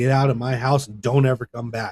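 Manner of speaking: usual speaking voice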